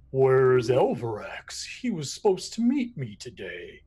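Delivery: hushed, breathy whisper of a worried owner. Acted. Owner whispering to the room about Elvirax. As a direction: lean in and whisper it low. GM voices dwarf owner asking.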